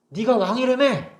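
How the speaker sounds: high, slow sneering 왕이라며 drawn out and falling; mocking jeer. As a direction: drag out 왕이라며 to ridicule him. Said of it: "그래서 사람들이 비웃어요". (왕이라며를 높고 느리게 비웃듯이)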